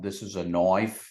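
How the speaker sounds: lightly imitated Crocodile Dundee line; a hint of a German-Australian "knife"; Vettel impression. Host quoting Vettel's Dundee line in mock accent. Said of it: "Sebastian Vettel, ... rendition".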